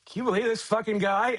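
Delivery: high, incredulous aside to a friend; exasperated aside. Retold or imitated. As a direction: roll your eyes and vent on the side. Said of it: "turns to Matthew and goes".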